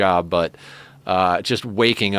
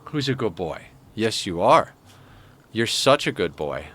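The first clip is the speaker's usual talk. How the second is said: pet praise. Real, not acted. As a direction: croon praise to the cat. Praising the cat.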